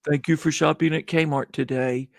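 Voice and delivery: flat, bored cashier line; lifeless tone. Retold or imitated. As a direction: say it by rote, no feeling. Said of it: "usually in some kind of lifeless tone".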